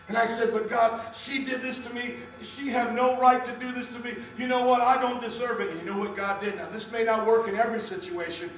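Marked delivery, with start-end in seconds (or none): 0.5-5.7 higher, louder retold objection; indignant protest. Wronged boyfriend protesting to God, indignant. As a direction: argue back with mounting insistence.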